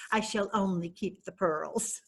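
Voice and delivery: soft, amused, laughing through it; sly laugh. Acted. Admitting to her friends she only wants the pearls, softly laughing. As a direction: chuckle at your own cunning.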